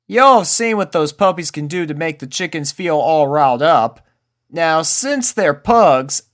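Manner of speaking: folksy explainer; country cowgirl. A narrator's reading. Applejack explaining.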